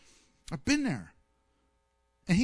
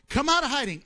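God's call; 5 semitones higher, 5 dB louder, faster than usual. Acted. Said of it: "God tells".

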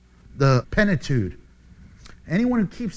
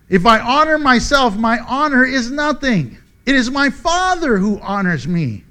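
emphatic declaration; 4 semitones higher, 5 dB louder than usual. Acted. Jesus' answer read out forcefully.

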